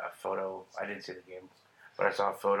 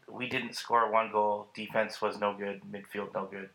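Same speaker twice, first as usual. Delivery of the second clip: put-on Italian accent. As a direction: imitate the coach in an Italian accent. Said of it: "Can you do an Italian accent?".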